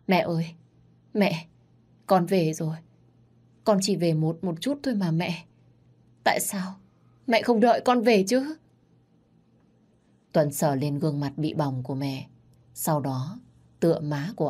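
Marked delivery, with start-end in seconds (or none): 0.1-8.6 crying son. Acted. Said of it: "lắc đầu bật khóc".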